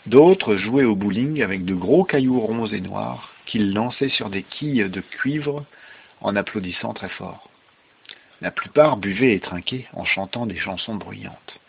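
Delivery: measured read-aloud storytelling; story narration. Acted. Father reading Rip Van Winkle to a child, storytelling voice.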